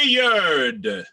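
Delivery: "Wayard" said as WAY-urd, drawn out; two-syllable weird. Shown as a demonstration. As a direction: correct it firmly, "Wayard" in two beats. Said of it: "Two syllables".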